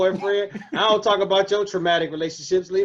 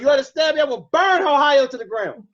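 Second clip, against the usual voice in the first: shaking with anger; 4 semitones higher than usual. Pretend. Mock outrage over Knicks slander.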